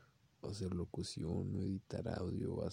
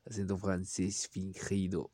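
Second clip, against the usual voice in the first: clumsy put-on French accent, slowed; lightly hammed French accent; fake French accent; 4 dB louder, slower than usual. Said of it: "Y que tiene un acento".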